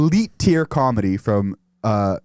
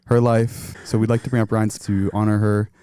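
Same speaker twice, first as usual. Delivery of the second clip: mock funeral officiant. Officiant introducing a eulogy to mourners, mock solemn. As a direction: pretend to introduce a eulogy with grave pauses.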